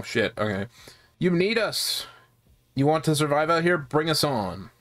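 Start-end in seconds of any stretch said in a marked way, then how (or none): 1.2-4.7 lightly voiced ogre impression; a hint of a cartoon ogre's accent; Shrek. Gamer voicing a recruiter pitching his gang, accidental Shrek voice. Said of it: "I'm gonna have a Shrek voice".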